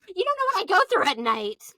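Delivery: high-pitched hammed-up sob talk; mock wailing protest. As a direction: wail it in comic imitation. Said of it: "Bethany's like".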